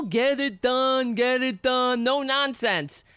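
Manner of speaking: slow, drawn-out mock yell; mock scream. Mocking what he thinks working involves, stretched mock scream. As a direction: parody a boss screaming at people. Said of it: "screaming at people".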